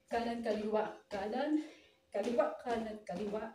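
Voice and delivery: moderately brisk dance count. Shown as a demonstration. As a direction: call the steps in linked groups of three. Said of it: "Ngayon, medyo mas mabilis".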